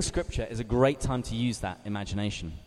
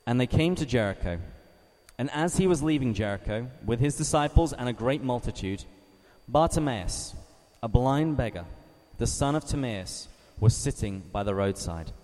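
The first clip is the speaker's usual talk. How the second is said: gospel reading. Acted. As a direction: read it gently so they can picture it. Reads Gospel for meditation.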